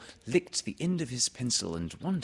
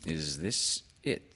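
Owl; 3 semitones lower, slower than usual. Acted. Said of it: "said Owl".

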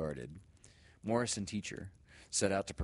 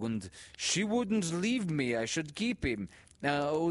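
put-on high, slow, earnest child's voice; immigrant boy pleading; 8 semitones higher, 5 dB louder, slower than usual. A narrator's reading. Boy begging teacher to let him keep Izzy. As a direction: plead to keep the dog, halting and eager. Boy character speaks at length.

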